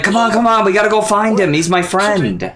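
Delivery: playful eager urging to go find his friend; imitating urgent pleading. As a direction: hurry a friend along in mock urgency. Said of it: "So he's like".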